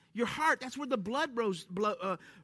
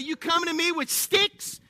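giant taunting; 3 semitones higher, 5 dB louder than usual. Retold or imitated. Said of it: "Goliath said".

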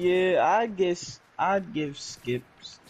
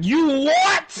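high, loud yelled you what with laugh; Benson impression; 10 dB louder than usual. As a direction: bark it like an angry boss. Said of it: "Benson always talking about".

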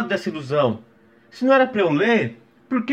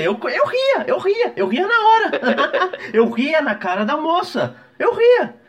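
laughing; 8 semitones higher, slower than usual. Real, not acted. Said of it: "eu comecei a rir".

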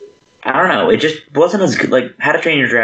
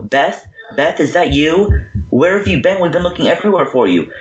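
lightly acted searchers, higher pitch; calling out; 4 semitones higher than usual. Twins calling for Beth up in the attic, mock calling out. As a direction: call out for a missing girl, retold.

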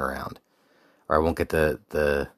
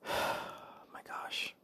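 awed whisper; 16 dB quieter, slower than usual. Real, not acted. Awe on entering the camp.

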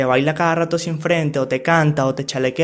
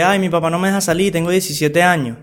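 put-on whiny teen complaint; 2 semitones higher than usual. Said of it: "Lo que decía, de que".

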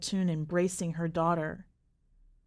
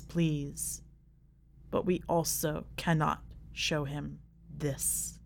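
ancient terrible goddess voice; 3 semitones lower than usual. Acted. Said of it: "as ancient and terrible as thunder".

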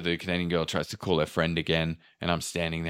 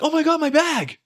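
squealing mock delight; 4 dB louder than usual. Girls spotting their bags.

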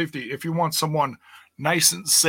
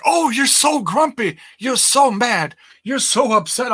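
mocking the troll; 7 semitones higher than usual. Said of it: "And he's like".

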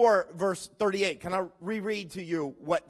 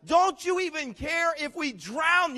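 higher, slow, mildly pleading "Don't you even care"; pleading disciple; 7 semitones higher than usual. Acted. Disciples plead with the sleeping Jesus, higher and slow. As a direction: beg like a frightened disciple. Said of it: "How can you sleep at a time like that?".

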